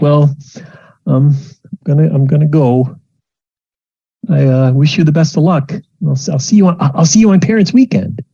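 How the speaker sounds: holding it together as she leaves; awkward goodbye. Acted. Mom saying goodbye fast, high and shaky. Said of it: "It's just like".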